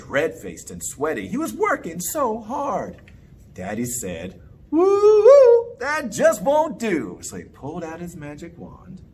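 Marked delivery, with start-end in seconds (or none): 4.7-7.2 disapproving. Acted. Daddy disapproving.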